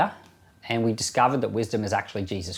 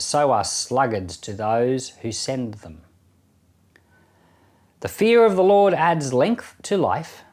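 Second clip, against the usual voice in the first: measured Bible reading with long pauses between verses; scripture reading. Acted. Reads Proverbs chapter ten aloud.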